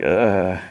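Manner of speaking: imitated drawn-out "ugh"; mock groan. Princesses all groaning at the news, mock groan. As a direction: groan like a fed-up group. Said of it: "like, groan".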